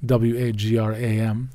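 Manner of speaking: W A G R A M read letter by letter; calm spelling of W A G R A M; spelled out. Shown as a demonstration. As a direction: spell W A G R A M for the listener. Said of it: "or Wagram".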